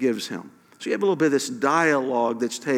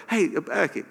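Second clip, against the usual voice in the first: like a friend who can't wait to tell; playful hyped-up voice of God; excited buddy God; 5 semitones higher than usual. Retold or imitated. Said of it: "It's almost like".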